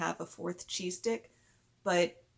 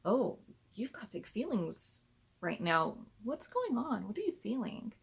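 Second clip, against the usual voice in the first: gentle questioning; 4 semitones higher than usual. Shown as a demonstration. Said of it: "it can go something like".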